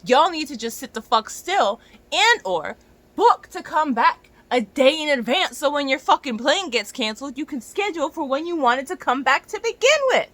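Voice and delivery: loud, high, furious ranting; worked-up rant. Real, not acted. Scolding clients whose planes get cancelled, loud fury. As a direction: let the frustration boil over. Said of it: "I'm very worked up right now".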